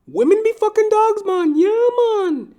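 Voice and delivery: high, loud Trinidadian barber voice; barber impression. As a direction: squeal the catchphrase in caricature. Barber catchphrase again.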